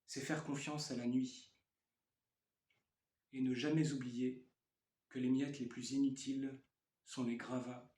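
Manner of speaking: measured poem recitation with pauses between phrases; poetry reading. Acted. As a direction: read it as verse, line by line. Reads own poem aloud.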